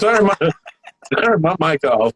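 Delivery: laughing through the words; giggling as he begs; laughing plea. Real, not acted. Laughing as he begs his cohost to kill the mic.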